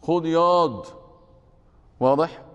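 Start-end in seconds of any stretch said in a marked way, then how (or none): 0.0-0.9 light Cairene street voice for ياض; قالها بلهجة قاهرية شعبية خفيفة; Cairo street slang. Retold or imitated. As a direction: toss off ياض casually like a Cairo local. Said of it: "في القاهرة يقولون".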